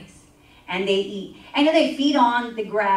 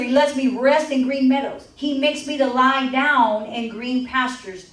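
scripture reading. Acted.

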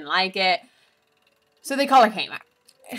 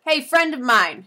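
urgent whisper-call; 6 semitones higher, 5 dB louder than usual. Retold or imitated. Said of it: "she's like".

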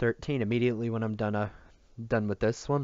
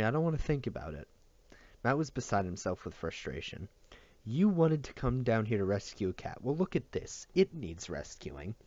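steady, measured audiobook reading; story narration. A narrator's reading. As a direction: read the chapter like a novel narrator. Reads the novel chapter aloud.

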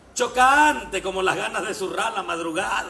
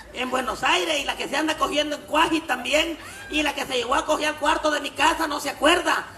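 mocking outburst; 5 semitones higher than usual. Chucha tells off the priest.

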